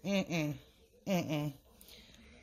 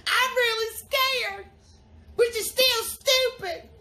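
slow scolding; 3 semitones higher, 3 dB louder, slower than usual. Acted. Scolding friend while scared.

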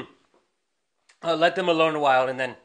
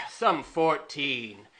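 Hotspur; 5 dB quieter, much slower than usual. Retold or imitated. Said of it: "and answers".

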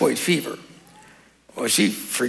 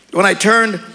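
scripture reading; 2 semitones higher than usual. Acted. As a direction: read each image with weight. Reads Revelation aloud.

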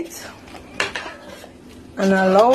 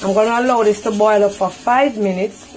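careful standard English over a Jamaican accent. Real, not acted. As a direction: switch from Patois into careful English. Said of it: "In my English voice".

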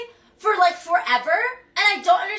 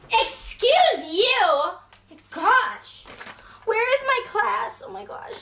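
higher, frantic half-laughing panic; overwhelmed new girl, hammed-up; mock flustered; 5 semitones higher, slower than usual. Lost student at a huge school, flustered and laughing.

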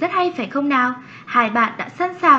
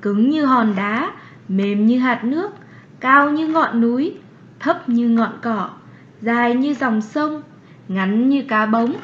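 reading aloud. Shown as a demonstration. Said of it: "cùng đọc to nhé".

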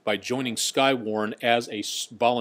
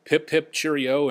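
slow, lightly put-on posh British English cheerio; a hammed-up British send-off; jokey British accent for a viewer in Wales; mock British accent; 4 semitones higher, slower than usual. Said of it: "best Anglophile accent that I can manage".

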